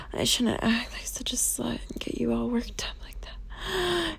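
soft contrite whisper; hushed guilty confession. Acted. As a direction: murmur the apology under the breath. Apologetic submissive roleplay.

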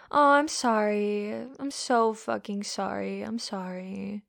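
slow, drawn-out insincere sorry; mock apology. Dominant feigning regret to partner, mock apology. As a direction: let the fake apology sink away.

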